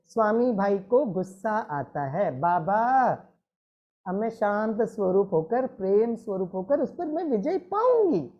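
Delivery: gentle, patient affirmation; said lovingly. Shown as a demonstration. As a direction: calmly reassure yourself. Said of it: "बात प्यार से बोलो".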